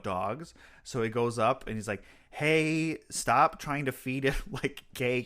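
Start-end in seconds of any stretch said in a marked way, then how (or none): 2.3-5.3 mildly rude scolding. Retold or imitated. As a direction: brush her off bluntly. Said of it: "He's really rude to her".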